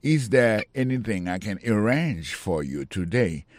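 slow, clear teaching read; slow model sentence. Shown as a demonstration. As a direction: say each word slowly for learners. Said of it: "teacher models the sentence". (li dousman pou elèv yo)

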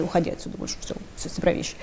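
whispered mock dismissal; hushed quote. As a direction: breathe it out like a muttered order. Retold eviction order from White House.

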